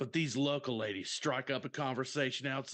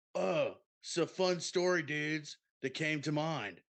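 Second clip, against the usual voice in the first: surfer-dude voice, pitched higher; 2 semitones higher than usual. Quoting someone named Pants at the start of a story, in Crush's voice. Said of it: "that's who you sound like".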